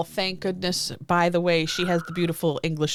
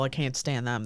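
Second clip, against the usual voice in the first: ordinary delivery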